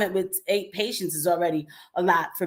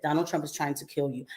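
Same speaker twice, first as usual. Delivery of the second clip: mock ominous report; 4 semitones lower, 7 dB quieter than usual. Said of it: "Literally, that's how they said it".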